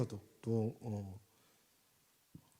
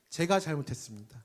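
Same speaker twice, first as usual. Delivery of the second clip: sincere confession; 4 semitones lower than usual. Shown as a demonstration. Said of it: "자, 우리 함께 선포합시다".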